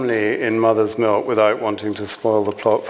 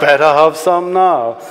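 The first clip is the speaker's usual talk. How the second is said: laughing; 5 semitones higher, 6 dB louder than usual. Acted. Mock inner voice in reading.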